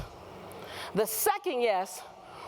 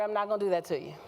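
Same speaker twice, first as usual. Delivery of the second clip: usual speaking voice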